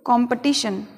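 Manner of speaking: कॉम्पिटिशन with schwa after P; weakened second vowel in कॉम्पिटिशन; corrected pronunciation. Shown as a demonstration. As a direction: say कॉम्पिटिशन as "kom-puh-ti-shun". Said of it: "हम बोलेंगे".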